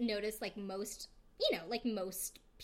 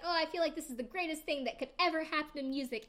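higher-pitched mock-thrilled quote; imitated happy gushing; 6 semitones higher, faster than usual. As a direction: lightly act out someone overjoyed. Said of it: "they're happy, and the rapper's just like".

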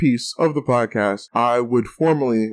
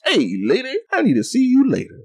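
rising high on the line like a cheesy flirt; mock pickup line; 10 semitones higher than usual. To his cohosts, showing the pickup line he used at the bar, hammed-up flirt. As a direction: toss off the line like a cocky smooth talker. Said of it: "That was actually my pickup line".

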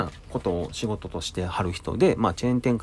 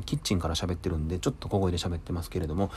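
speaking softly; 5 dB quieter than usual. Real, not acted.

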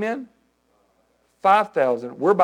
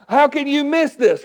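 higher, slowed disbelieving complaint; mock exasperation; 9 semitones higher, slower than usual. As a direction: ask it like you can't believe they missed it. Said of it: "my flesh would want to get in here going".

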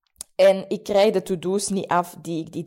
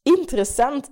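mild curious surprise; 5 semitones higher than usual. Shown as a demonstration. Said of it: "moest ik echt zeggen tegen mezelf".

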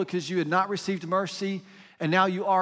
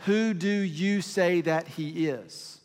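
slow, measured question, word by word; deliberate, pointed question; much slower than usual. Retold or imitated. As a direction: put the question slowly and deliberately. Preacher puts key question pointedly.

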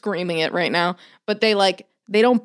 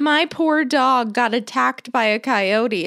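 higher, drawn-out neighborhood complaint; mock screaming; 5 semitones higher, slower than usual. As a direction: wail it slowly, imitating an outraged dog owner. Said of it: "People just screaming at each other".

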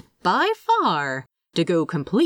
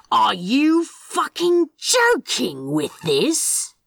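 slow, low threat to a plant; low menacing demand; 6 semitones higher, slower than usual. A narrator's reading. Crowley threatening his wilting plant, slow and low. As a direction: menace it slowly, voice kept low. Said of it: "his voice low".

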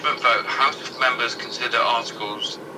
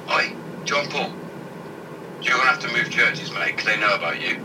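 hushed pope. Retold or imitated. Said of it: "Popes before him went".

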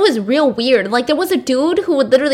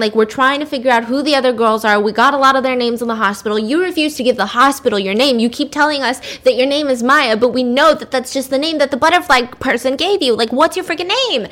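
hurried, mildly exasperated mock interrogation; acted-out impatient investigator; impatient questioning. Director presses her for name.

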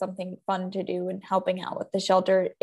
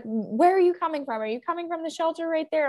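lightly voiced curious stranger; 8 semitones higher than usual. Woman questioning.

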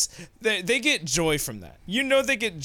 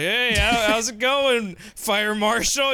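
higher, over-eager mock greeting; nervous store manager; 4 semitones higher, slower than usual. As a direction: imitate a manager nervously greeting the fire marshal. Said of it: "store manager shaking in fear".

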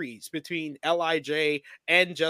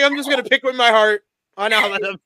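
imitating co-host; 7 semitones higher, 10 dB louder, faster than usual. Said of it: "She's like".

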